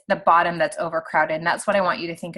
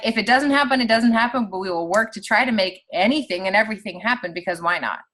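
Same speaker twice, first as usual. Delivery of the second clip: upbeat; 2 semitones higher than usual. Retold or imitated. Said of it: "We're like".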